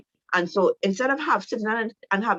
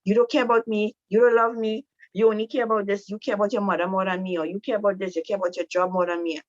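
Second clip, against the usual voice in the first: nagging wife lines; 2 semitones higher, faster than usual. Retold or imitated. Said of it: "we love to use that, those lines".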